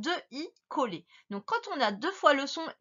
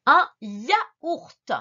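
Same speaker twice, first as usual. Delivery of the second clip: loud, over-articulated dictation; 3 semitones higher, 8 dB louder than usual. Shown as a demonstration. Teacher dictates to the pupil, slow dictation. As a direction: dictate YAOURT loudly, in separated syllables. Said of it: "tu écris".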